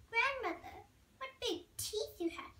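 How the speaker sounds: mild alarm. A narrator's reading. Girl notices the disguised wolf's teeth, mildly alarmed.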